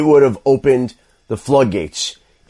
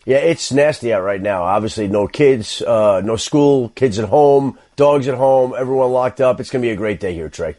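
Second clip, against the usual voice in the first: unenthusiastic, melancholy. Real, not acted. Guest tells host about everyone locked up at home, glum and unenthusiastic. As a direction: sound thoroughly unenthused about being snowed in. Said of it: "hear the enthusiasm in your voice".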